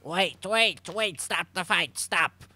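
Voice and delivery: loud urgent stop call; urgent shout. Acted. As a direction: halt everything, loud and urgent. Halting the fight.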